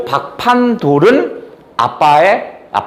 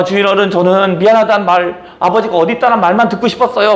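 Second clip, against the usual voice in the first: angry; 5 semitones higher than usual. Retold or imitated. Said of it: "화가 막 난 거야".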